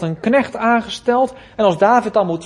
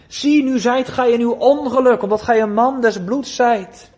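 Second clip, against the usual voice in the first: preacher voicing Simeï's curses, mildly raised; a restrained mock yell of abuse; retold cursing shout; 3 semitones higher, 3 dB louder than usual. Preacher retells how Simeï curses David, mild mock yell. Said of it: "En hij schreeuwt en zegt".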